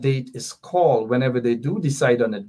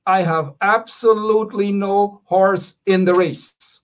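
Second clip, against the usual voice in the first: "absolutely no horse" spaced out slowly and pitched up; slow, higher, emphatic delivery of "absolutely no horse"; read-my-lips emphasis; 5 semitones higher than usual. Real, not acted. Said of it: "I want you to read my lips".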